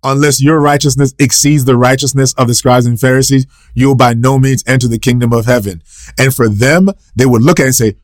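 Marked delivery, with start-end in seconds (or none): 0.0-5.8 a touch of sarcasm in the quote; lightly mock the Pharisees with it; mild sarcastic jab. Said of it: "notice the sarcasm".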